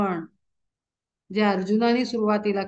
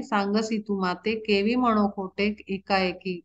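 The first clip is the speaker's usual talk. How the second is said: devotional verse recitation. Acted. Preacher reciting Arjuna's plea to Krishna, measured chant. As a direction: intone each line of the abhang like a kirtan.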